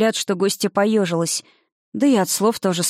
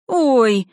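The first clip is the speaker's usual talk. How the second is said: sharp high ouch; yelp of pain; 5 semitones higher, 3 dB louder than usual. A narrator's reading. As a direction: yelp from a slap. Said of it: "взвыла Аника".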